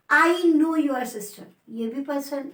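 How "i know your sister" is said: slow, caring read of I know your sister; warm concern. Shown as a demonstration. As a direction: show personal concern on sister. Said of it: "second example देखते हैं". (धीमा, अपनापन भरा स्वर)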